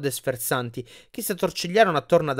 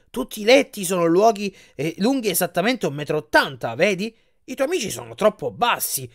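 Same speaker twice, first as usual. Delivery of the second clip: lightly voiced salesman, a bit higher; giant bed salesman; 5 semitones higher than usual. Giant salesman explains bed lengths to Percy, lightly voiced pitch. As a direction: lightly play a salesman explaining his fussy rule.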